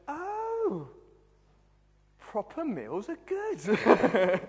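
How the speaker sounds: high, drawn-out wail of discovery; mock revelation. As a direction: cry out like a sudden epiphany. Student's sudden food revelation.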